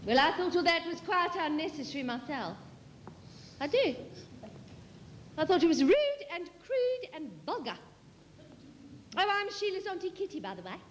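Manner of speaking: prim, fast-talking South African auntie, indignant. Acted. Auntie Kitty tells the British audience off, prim South African. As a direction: rattle it off like a prim disapproving visitor.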